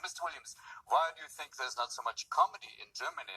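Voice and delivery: earnest German accent, imitated. German interviewer questioning a comedian, imitated German accent. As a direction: put on a German woman's accent. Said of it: "I was once on a German talk show".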